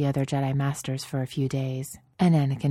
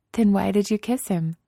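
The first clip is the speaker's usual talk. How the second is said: Padme's voice; 5 semitones higher than usual. Acted.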